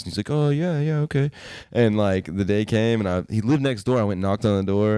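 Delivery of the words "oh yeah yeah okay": put-on kid agreeing. Neighbor kid voiced.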